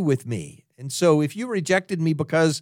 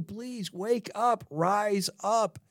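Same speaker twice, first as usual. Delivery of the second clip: hushed plea; 5 semitones higher, 8 dB quieter, much slower than usual. Retold or imitated. Lord, we just ask you.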